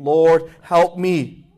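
slow, earnest pleading, held back; a lightly voiced desperate mother, slow; imploring woman. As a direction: plead slowly, lingering on each cry. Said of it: "She continues imploring him".

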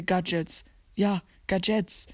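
Gadgets said "gad-JETS" with an A; mocked wrong pronunciation. Shown as a demonstration. Player cites others' wrong Gadgets, said gahd-jets. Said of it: "Das heißt gar nicht".

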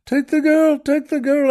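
high, urgent mock cry; retold near-shout. Mother giving up her daughter, almost shouting. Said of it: "just almost shouts out".

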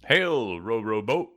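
high, drawn-out hail to a giant; ceremonious greeting, called out. Acted. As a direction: call up to someone huge. Hailing a giant from below.

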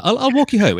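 high, loud mock Scottish brogue; re-read it as the hammy Scot; Scottish man. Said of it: "she's doing that thing where she's like".

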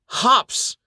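a high, loud, delighted cry; gleeful monk voice popping up high; grinning exclamation. A narrator's reading. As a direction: exclaim it with a grin after the swig. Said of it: "exclaims with a grin".

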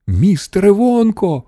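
put-on high-pitched anxious boy's call. A narrator's reading. Charlie to Wonka about the height, calling out high. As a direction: call out in a high, urgent child's voice. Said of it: "гукнув Чарлі".

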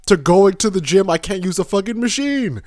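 high, loud exasperated complaint; exasperated rant. Real, not acted. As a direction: vent in loud disbelief. Exasperated rant about crowded gym.

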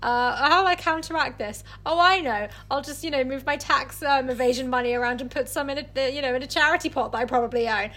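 a hint of a smug tycoon, quickening; smug rich man. Friend mocking a rich man's fake charity, lightly smug. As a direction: breeze through it like a tax dodger. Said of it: "Who does that sound like?".

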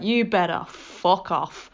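slow, firm mock-Nan telling it off; Nan fashion. Nan ordering the presence out of her bedroom, slow stern imitation. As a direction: lightly imitate Nan ordering the thing out, slowly. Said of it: "in spectacular Nan fashion".

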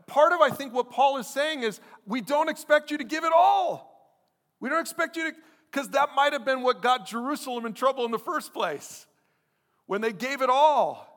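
high, loud impassioned preacher; full-force preaching. Real, not acted.

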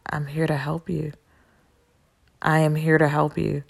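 whispered then soft confiding; hushed. Retold or imitated. Telling the man she just met why they met, hushed. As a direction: lean in and whisper it to him. Telling him her purpose.

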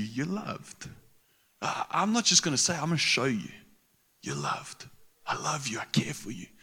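soft, intimate reassurance spoken close; tender reassurance. Acted. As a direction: tell each listener gently they are loved. Preacher speaks love to listeners.

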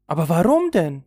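loud, high, impatient question; slightly irritated. A narrator's reading. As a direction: demand a reason with some irritation. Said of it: "fragte Rirette leicht gereizt". (leicht gereizt, mit erhobener Stimme)

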